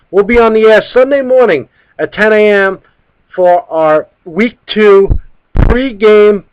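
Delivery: slow, punched-out radio host sign-off; measured on-air plug with deliberate phrasing; show sign-off. Real, not acted. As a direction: announce the show, stretching out the names. Reads the show's sign-off.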